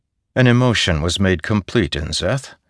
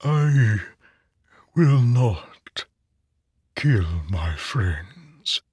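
dozing whisper; 4 semitones higher, much slower than usual. A narrator's reading. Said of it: "A dozing voice seemed to whisper".

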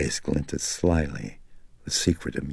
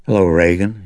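calm, friendly greeting masking unease; forced calm friendliness; 4 semitones higher, 9 dB louder, faster than usual. Acted. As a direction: sound warm though he's rattled. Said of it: "Karis fought to sound calm, even warm and friendly".

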